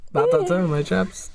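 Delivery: lightly put-on British officer voice; a hint of posh English chap; mock English accent. British commander to his men, lightly mock English. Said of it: "That's English".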